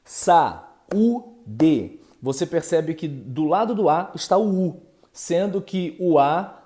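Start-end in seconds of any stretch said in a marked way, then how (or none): 0.1-2.0 saúde with sa and ú split apart; demo word. Shown as a demonstration. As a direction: pronounce saúde clearly for the class. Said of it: "Por exemplo". ("saúde" pronunciado separando o a do u)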